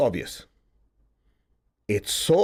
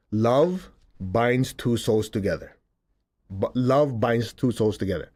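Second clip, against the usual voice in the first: slow solemn quote; 2 semitones lower, slower than usual. Retold or imitated. Quoting the teacher's saying.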